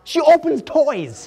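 high, slow, emphatic disbelief; incredulous exclamation. Real, not acted. YouTuber amazed at a toy channel's views, incredulous. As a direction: drive the punchline home, drawn out and high. Incredulous punchline about huge view counts.

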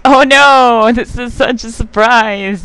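slow, hammed-up fake shock; mock surprise. Mocking his own fake surprise at the enemy phase, slow sarcastic. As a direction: ham up a fake gasp of surprise. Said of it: "Why do I act surprised".

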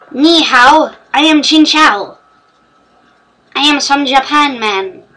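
lightly hammed-up mock East Asian accent; weird put-on accent. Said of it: "Stop talking in weird accents".

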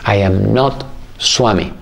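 slow and grave; serious master. Retold or imitated. Sai Baba answering the eager disciple, slow and serious. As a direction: lay it down calmly and seriously. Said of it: "muy serio Sai Baba y me dice".

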